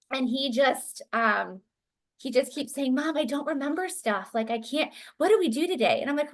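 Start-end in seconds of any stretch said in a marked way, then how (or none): 2.9-6.0 higher-pitched, mildly distressed retelling; a touch of frightened confusion; imitated scared child. Upset son telling mother he forgets, mildly scared imitation. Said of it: "He's really scared".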